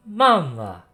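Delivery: put-on tiny squeaky dragon baby voice. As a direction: squeak it out like a newborn. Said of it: "a tiny little voice squeak out".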